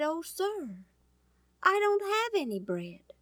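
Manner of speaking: a poor widow admitting she has nothing; timid widow. Acted. The starving widow answers Elijah.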